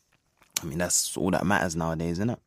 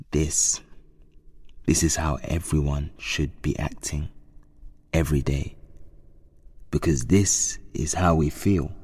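quoting his speech. Retold or imitated. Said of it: "He was going".

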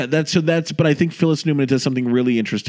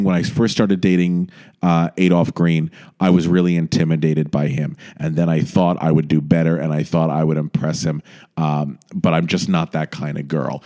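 soft confessional; 6 semitones lower than usual. Retold or imitated. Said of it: "it's her saying".

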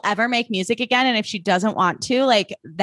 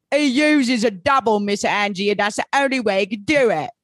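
Michael Caine impression. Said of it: "Remember in The Prestige when he's like".

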